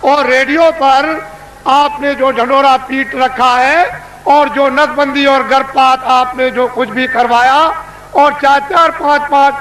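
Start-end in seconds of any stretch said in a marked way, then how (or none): 0.0-3.6 booming orator addressing a crowd; booming political rally speech. Acted. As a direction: proclaim it to a packed rally.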